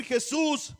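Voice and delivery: loud imitated plea for mercy; imitating a loud cry for help. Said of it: "comenzó a dar voces y decir".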